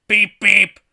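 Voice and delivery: high, very loud horn imitation; Bus God, booming. Giant celestial bus announces itself, booming. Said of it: "Booms the giant celestial bus".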